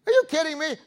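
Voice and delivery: high, incredulous outburst; mock disbelief. Preacher mimicking golfer stunned by near miss. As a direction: act out golfer's amazed reaction. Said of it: "and you think".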